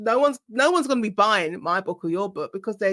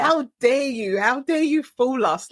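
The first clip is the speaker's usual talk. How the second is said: mildly indignant, slightly higher, stretched out; 4 semitones higher, slower than usual. Acted. Irritated writer addressing the book trade, mock indignant. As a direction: put on a mock affronted protest. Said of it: "it irritates a certain part of my personality".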